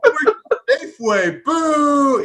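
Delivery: high, loud, slow jeer; booing heckler. Retold or imitated. Mock theatregoer at a play, loud drawn-out booing. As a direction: boo the actors from the audience.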